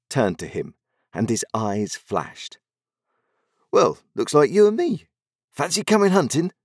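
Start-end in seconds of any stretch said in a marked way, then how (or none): 3.7-6.5 put-on cheerful pirate boy. A narrator's reading. Pirate boy invites Jack.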